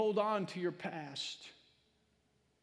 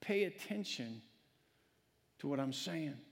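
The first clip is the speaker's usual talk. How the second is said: still small voice; 5 semitones lower, 6 dB quieter than usual. Pretend. Preacher voicing God speaking to a listener, hushed and soft. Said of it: "in a still small voice".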